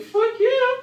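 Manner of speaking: put-on loud, high drunken whoop; drunken yell at the bar; drunk cheer. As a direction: cheer it like you're wasted. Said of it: "I'm like".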